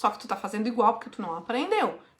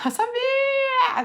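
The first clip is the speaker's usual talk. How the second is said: laughing eu sabia; 13 semitones higher, much slower than usual. Real, not acted. Coach sees answer already given.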